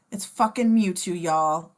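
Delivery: fanboy excitement at the reveal; hyped. Real, not acted.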